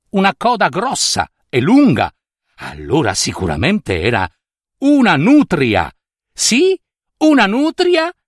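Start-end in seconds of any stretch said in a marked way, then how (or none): 6.3-8.1 rivelazione stupita. A narrator's reading. Narratore svela la nutria.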